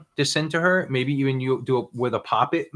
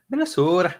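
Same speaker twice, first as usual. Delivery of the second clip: lightly exaggerated Minnesota accent, long round O; 5 semitones higher than usual. Cohost playfully imitates how locals say Minnesota, mock Minnesota accent. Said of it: "I really like how they pronounce it".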